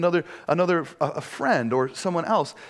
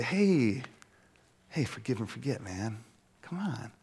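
soft, dismissive brush-off; mock dismissive; 4 semitones lower, 7 dB quieter than usual. Pastor mocks telling victims to get over it, said softly. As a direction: say it quietly like it's nothing. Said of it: "Do we go to them and say".

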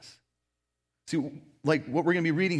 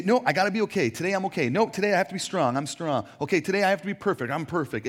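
self pep talk; 4 semitones higher, 4 dB louder, faster than usual. Retold or imitated. Forcing yourself to be okay.

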